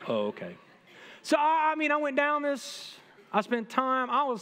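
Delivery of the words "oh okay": put-on whiny teen. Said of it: "and he's whiny".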